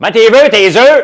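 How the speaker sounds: put-on very high, loud old truck stop waitress voice.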